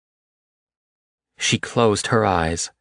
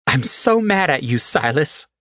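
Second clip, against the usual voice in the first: higher, hoarse, tearful "I'm so mad at you"; 8 semitones higher than usual. A narrator's reading. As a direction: rasp it out through tears. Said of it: "she said hoarsely".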